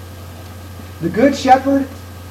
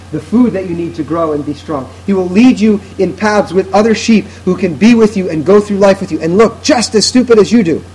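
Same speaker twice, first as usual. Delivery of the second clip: ordinary talk, nothing marked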